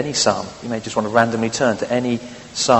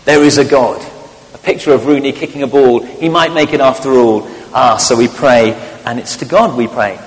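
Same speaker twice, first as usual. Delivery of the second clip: tabloid headline; 5 dB louder than usual. Retold or imitated. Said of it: "Front page".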